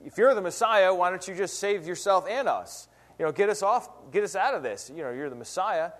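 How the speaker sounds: a touch of sneering mockery; mocking taunt. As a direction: taunt him lightly, half-hearted scorn. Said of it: "making fun of him".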